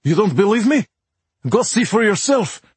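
put-on cab driver in thick Russian accent; urgent, broken English, heavy Russian accent. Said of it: "in a thick Russian accent".

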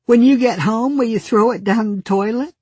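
put-on high, loud little girl asking; bright child's eager question. Little girl voiced in story.

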